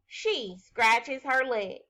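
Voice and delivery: put-on slow, clear reading for children; slow model sentence. Shown as a demonstration. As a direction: read it slowly so kids can follow. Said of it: "I could say".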